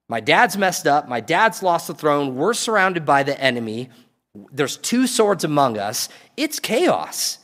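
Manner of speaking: acted dismay. Voicing Jonathan's dismay at the chaos.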